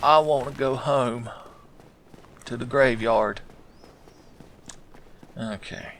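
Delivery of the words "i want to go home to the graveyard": Skeleton Bob. Acted. Beaten skeleton longing for the graveyard, plaintive put-on voice. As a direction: play a homesick skeleton, pitched up a little. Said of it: "I heard Skeleton Bob say".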